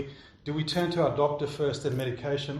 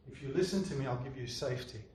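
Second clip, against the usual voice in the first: soft, hushed voice of fear; quietly coax, as fear making promises; 9 dB quieter than usual. Acted. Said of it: "the voice of fear says".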